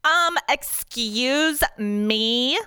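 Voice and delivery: slow, high entitled drawl; offended lady looking down her nose; snotty, privileged. Acted. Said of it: "her snotty, privileged voice".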